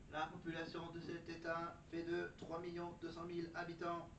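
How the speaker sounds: even ChatGPT robot reading. Pretend. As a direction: deliver facts like an AI. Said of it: "J'adore faire la voix de robot de chat G P T".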